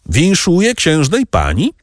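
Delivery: high, ringing congratulation on winszuję; excited call. Acted. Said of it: "zawołał".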